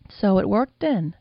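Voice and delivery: a lightly voiced older madam, slow and amused. The madam teasing her lover, lightly voiced older woman. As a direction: savor the question like a knowing old woman.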